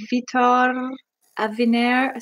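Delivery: "Vitor Aviner" with stressed final syllables, foreign-accented; "Vitor Aviner" said as a foreign name, endings stressed; attempted native accent on the name. Shown as a demonstration. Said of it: "giving me crap for not pronunciating, like, or using the".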